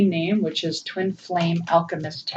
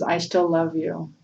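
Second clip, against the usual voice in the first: close to tears; 5 dB quieter, slower than usual. Real, not acted. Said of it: "I'm gonna cry".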